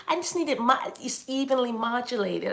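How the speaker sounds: lightly mocked modulated voice; voice-lesson student. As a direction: speak as if carefully modulating each word. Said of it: "your little voice lessons so your voice could".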